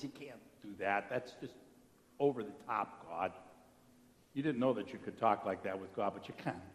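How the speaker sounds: Moses pleading. Retold or imitated. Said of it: "And Moses says".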